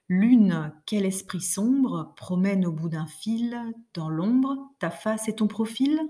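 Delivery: rhythmic, measured recitation; poem reading. Shown as a demonstration. Teacher rereading the verse without snapping, rhythmic. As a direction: read the verse aloud keeping the beat. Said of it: "je le relis sans claquer dans les doigts".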